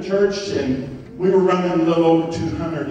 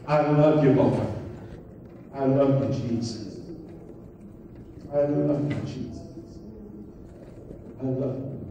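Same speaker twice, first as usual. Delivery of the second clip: low prayer fading softer; tender prayer; 3 semitones lower, 7 dB quieter than usual. Real, not acted. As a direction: murmur devotion to Jesus, trailing away. Models intimate prayer to Jesus.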